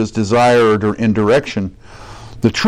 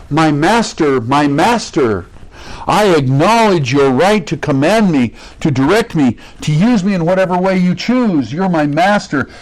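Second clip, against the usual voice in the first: raised, earnest pledge to a master; devoted servant's declaration; 4 semitones higher than usual. Acted. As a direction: declare submission with emphatic, higher-pitched conviction. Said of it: "what the person is saying is".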